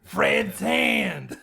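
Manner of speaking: a silly high puppet voice; puppet hand voice. Retold or imitated. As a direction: play the severed hand greeting him. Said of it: "He goes".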